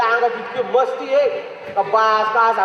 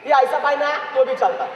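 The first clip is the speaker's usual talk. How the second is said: imitating the watchman; 3 semitones higher than usual. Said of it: "मग तो watchman कसं म्हणतो".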